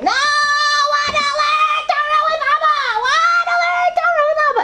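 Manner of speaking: put-on child shrieking to learn with his father; imitated screaming child. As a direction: wail it like a tired boy who won't give in. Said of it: "So he starts screaming".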